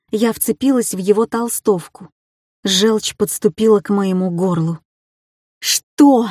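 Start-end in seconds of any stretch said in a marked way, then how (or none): 5.6-6.3 higher and louder, a sob breaking through; a tearful gasp of a word; choked, near tears. A narrator's reading. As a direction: force the word past rising tears. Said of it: "выдавила я, стараясь сдержать свои грёбаные слёзы".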